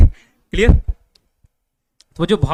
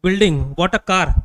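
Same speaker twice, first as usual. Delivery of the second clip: exclaiming; 6 dB louder, much slower than usual. Shown as a demonstration. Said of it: "वो क्या क्या के लिए बोलते हैं ना".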